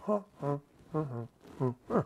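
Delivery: soft, low repeated "huh"; quiet head-shaking huffs. Shown as a demonstration. Host showing listeners how he shakes his head, quiet huffs. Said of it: "Don't you just go like this?".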